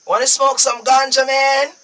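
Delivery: hammed-up tourist asking for ganja; mock tourist voice. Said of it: "them know say".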